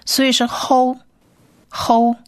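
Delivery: ho, ho stretched slowly and clearly; sounding out ho. Shown as a demonstration. Teacher models the syllable ho slowly. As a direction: draw out ho, ho. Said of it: "念O的音".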